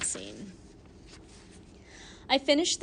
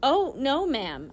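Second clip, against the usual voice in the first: stuttering; 4 semitones higher, 4 dB louder, slower than usual. Acted. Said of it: "I stuttered".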